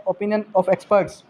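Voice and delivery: each word drawn out slowly; slow dictation. Shown as a demonstration. Teacher slowly dictating the heading to the class. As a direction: spell out the heading slowly for students. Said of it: "expert opinion क्या होता है?".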